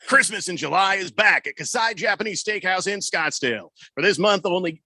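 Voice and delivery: upbeat radio commercial read. Acted. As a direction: sell it like a radio spot. Reading a radio ad.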